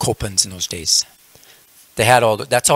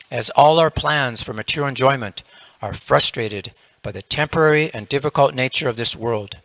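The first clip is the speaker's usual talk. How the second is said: formal, slightly raised, measured narrator delivery; narrator's moral; 2 semitones higher than usual. Retold or imitated. Narrator summing up the yogi's dilemma, declamatory narration. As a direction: proclaim the lesson like a story's closing narration. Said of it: "And then the narrator says".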